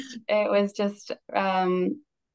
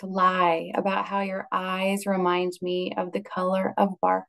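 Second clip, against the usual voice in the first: poem reading. Acted. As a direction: read it gently, line by line. Reads a poem aloud.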